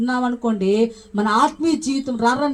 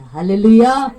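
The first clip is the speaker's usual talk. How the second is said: loud hallelujah call; 3 semitones lower, 6 dB louder, slower than usual. Real, not acted. Preacher rousing the congregation with a loud call. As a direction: ring out the hallelujah to the church.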